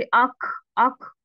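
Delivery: अख with a scraping ख sound; wrong: scrape अख in the throat; wrong rasping release. Shown as a demonstration. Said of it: "ये भी नहीं बनाना". (अख वाली गलत आवाज़)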